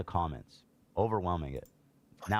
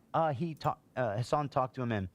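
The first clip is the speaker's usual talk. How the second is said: higher mocking voice of a dismissive critic; mocking opponents; 3 semitones higher than usual. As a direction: parody the naive defender, lightly. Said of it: "what people go".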